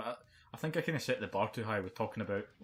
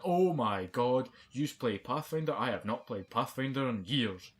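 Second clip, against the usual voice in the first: slow, drawn-out gushing; lightly voiced pushy party guest; mocking an overeager woman; 3 semitones higher, 4 dB louder, slower than usual. Imitating a loud medical student at a party, slow gush. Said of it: "she literally over the top of us went".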